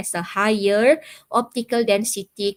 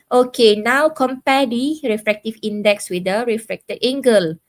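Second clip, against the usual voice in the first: raised voice to get the students' attention; louder call to class; 2 semitones higher, 5 dB louder than usual. Real, not acted. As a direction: project it out to the whole class. Teacher calls on online class.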